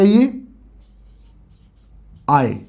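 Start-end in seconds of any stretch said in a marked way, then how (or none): 2.3-2.6 आय as ए and आ joined in one syllable; sounds read together. Shown as a demonstration. Teacher shows children what both letters make, sounds joined. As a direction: blend the two vowels into a single आय. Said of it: "दोनों को आप एक साथ पढ़ेंगे".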